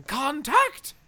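high, loud retold shout; punchy mock yell; imitated demolition call. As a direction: call it out loud like a warning before a blast. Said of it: "she's doing demolition and going".

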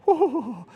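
high wavering "ooh"; imitated whoop. Imitates the prophetic guy.

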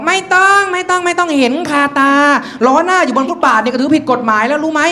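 mock stern cop, insistent; scolding policeman. Policeman refusing a rider's excuse, scolding.

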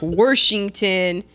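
Midwest "Washington" with an r, as "Warshington"; imitated Midwest "Washington"; Midwest accent. Shown as a demonstration. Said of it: "some weird Midwest accent thing".

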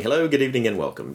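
lightly voiced Python-style TV host greeting; Monty Python intro. Podcast host opening like a Monty Python show, mock host voice. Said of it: "always hard to start one of these shows without saying".

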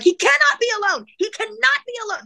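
high-pitched frantic retold plea; panicked, repeated insistence at high pitch; losing it. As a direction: insist desperately, voice way up. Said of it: "losing it".

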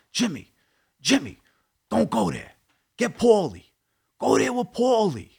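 high, strained voice of an alarmed friend; urgent phone warning, imitated. Tommy warning Jimmy by phone, imitated urgently. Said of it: "on the phone like this".

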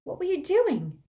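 high, stern demand. Acted. Hermione confronting Harry, stern. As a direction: demand an answer sharply. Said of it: "asked Hermione sternly".

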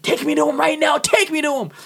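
mock-yell the order; half-shouted take me to him; retold yell. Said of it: "I had to yell at them".

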